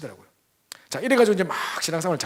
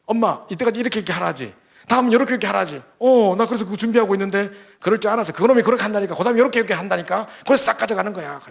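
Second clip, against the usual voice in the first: higher, louder urgent explanation; worked-up daughter; 6 semitones higher, 4 dB louder than usual. Retold or imitated. Daughter warning her mother: higher, louder urgent telling. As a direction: lay out the scam, alarmed.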